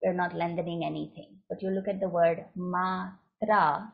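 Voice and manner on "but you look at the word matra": "matra" with both syllables held long; long syllables demo. Shown as a demonstration. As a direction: stretch the word matra. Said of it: "both are long syllables".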